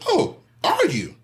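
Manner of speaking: high, slow mock surprise; mocking dare. Brandon taunts the nephew's stab threat, high slow. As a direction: taunt him, drawn out high. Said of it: "I said".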